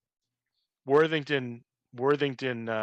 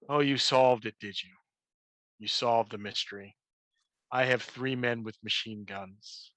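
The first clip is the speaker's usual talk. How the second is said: mustache twirling villain. Acted. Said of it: "in true Matt Yancic Game Master villain style".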